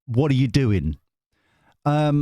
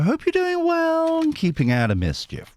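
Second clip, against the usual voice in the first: sing-song greeting. Acted. Playful high greeting.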